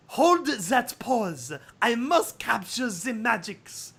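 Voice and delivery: slow, odd foreign-tinged photographer voice; Photo Finish. Acted. Photographer to naked Sunset, slow eccentric voice. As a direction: draw it out like an eccentric artist behind a camera.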